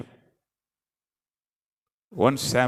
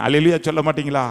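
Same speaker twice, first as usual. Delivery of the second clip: calling out to congregation; faster than usual. Real, not acted. Calls out to congregation.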